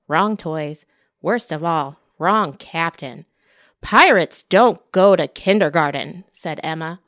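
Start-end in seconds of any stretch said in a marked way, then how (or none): 3.8-6.2 stubborn protest. Acted. Emma protests being left.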